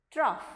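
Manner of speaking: "trough" loud, rhymed with off; model pronunciation. Shown as a demonstration. Teacher reading the fourth word, emphatic model pronunciation. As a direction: say "trough" as TROFF, ending in F. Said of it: "you read this word as".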